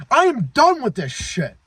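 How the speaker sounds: high-pitched angry outburst, reliving it; retold yelling. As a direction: spit it out like the moment it snapped. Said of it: "I'm yelling because I'm remembering".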